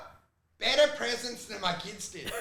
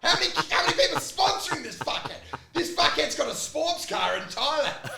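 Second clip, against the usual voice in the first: laughing mock complaint; 5 semitones higher than usual. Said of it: "I'm like".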